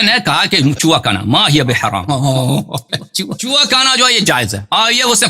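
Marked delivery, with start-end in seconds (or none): 2.1-3.1 short real chuckle; amused laugh. Real, not acted. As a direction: chuckle after making your point. Laughs after citing the ruling. (ہلکی ہنسی)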